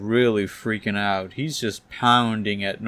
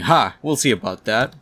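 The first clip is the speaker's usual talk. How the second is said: loud triumphant "Ha!", then eager challenge; excited; 4 dB louder than usual. Acted. Doc Ock as the document prints, excited. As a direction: pounce on it with glee. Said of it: "Doc Ock gets excited".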